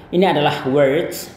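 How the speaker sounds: words said as /werts/; pronunciation demo. Shown as a demonstration. Teacher repeats words for students. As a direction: model words clearly for learners. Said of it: "once again".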